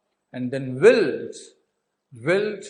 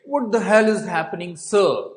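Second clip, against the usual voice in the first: startled raised demand; mock alarm; 4 semitones higher, 4 dB louder than usual. Officer arriving at the scene, raised startled demand. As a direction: burst in asking what's going on. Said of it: "he said".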